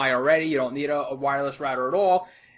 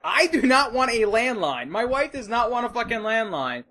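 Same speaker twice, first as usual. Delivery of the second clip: much higher and louder exasperated rant; mock furious rant; 7 semitones higher, 4 dB louder than usual. Telling the rep off about the landline, high angry rant. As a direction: vent like you've lost it. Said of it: "I was like".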